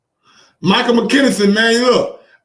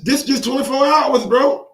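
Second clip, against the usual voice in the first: amazed outburst; 6 semitones higher than usual. Real, not acted. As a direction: blurt it out, amazed at the pile-up. Amazed at flood of comments.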